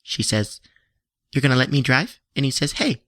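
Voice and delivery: lightly voiced YouTube host intro; mock YouTube reviewer. Reenacting a YouTube reviewer for the podcast, hammed up. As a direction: present it like a movie review channel. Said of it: "So, Act One".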